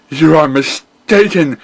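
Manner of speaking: high, loud, firm retort; defiant pony hero. Acted. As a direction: snap it back like a brave pony. Hero retort, repeated by villain.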